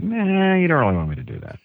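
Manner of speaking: lightly done Yoda voice; a hint of Yoda, quick and high. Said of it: "I'm like".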